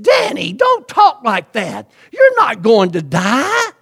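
loud, slow, pleading cry of denial; alarmed protest. Retold or imitated. Wife pleading with her husband not to talk of dying, loud and slow. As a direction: shout it slowly, begging him to stop.

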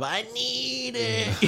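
high, slow, drawn-out cartoon voice; SpongeBob voice. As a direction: stretch it like a desperate cartoon sponge. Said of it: "like SpongeBob".

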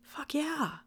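ordinary talk, nothing marked

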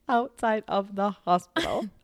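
slow, deliberate correction of outside of the hospital; careful slow rephrase. Shown as a demonstration. Speech therapist to friend, correcting herself carefully. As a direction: say outside of the hospital slowly and precisely. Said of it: "Using my speech strategies".

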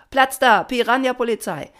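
high, loud chanted reply; answering chorus. A narrator's reading. The swarm answers Papa's motto, high shouted reply. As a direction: shout back like an eager crowd. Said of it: "Alle antworteten".

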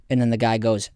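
normal talking voice

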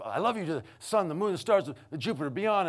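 high, loud playful list; excited one-upping. Retold or imitated. Dad topping his daughter in the love game, excitedly high. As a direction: raise the stakes with each item.

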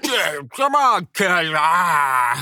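a playful, exaggerated Boston accent. The speaker doing a Boston accent on request, thick Boston accent. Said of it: "your best unintelligible Boston accent".

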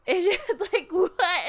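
high, loud Southern drawl of a confused what; mock white Southern accent; imitating him in a Southern accent. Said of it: "In his Southern accent".

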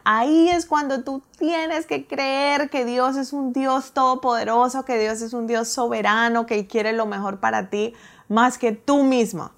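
a touch of fervent pastor; mock preacher. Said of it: "él empezó a decir".

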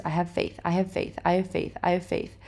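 soft, repeated affirmation; murmured reassurance to oneself; self-soothing mantra. Retold or imitated.

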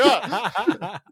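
high mock yelp with laughter; laughing imitation of being startled; retold startled cry. Host retelling the jump to friends, laughing mock yelp. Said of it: "So I was like".

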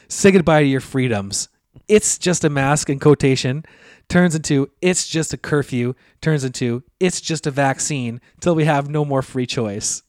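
slow, dramatic doom-saying; mock conspiracy rant. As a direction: drag it out like a paranoid prophet. Mocking conspiracy post.

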